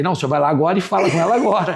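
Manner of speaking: quick, mock-commanding plea with amusement; bossy prayer. Husband retells pressing God to speak to his wife, playfully bossy. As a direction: hurry through it as if ordering God about. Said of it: "Mandando em Deus".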